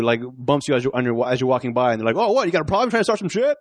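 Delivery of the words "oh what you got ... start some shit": higher-pitched mock challenge; confrontational. Drunk guy challenges whoever bumped him at the bar, confrontational. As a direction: pick a fight, acted out in a retelling.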